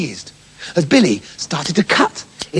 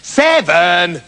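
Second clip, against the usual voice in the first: small voice calling down from a tree; a hint of a tiny goat kid; little kid voice. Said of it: "came a little voice from the tree".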